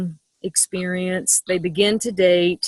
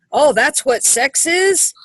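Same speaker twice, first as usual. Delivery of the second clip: mock shock; 5 semitones higher than usual. Acting out reaction to porn.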